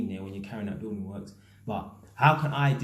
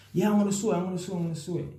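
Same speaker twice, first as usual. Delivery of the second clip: high, sing-song brush-off; mocking excuse; 6 semitones higher, much faster than usual. Debtor on the phone dodging payment, mocking high sing-song. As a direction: parrot the same empty promise. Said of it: "I'm starting to get pissed".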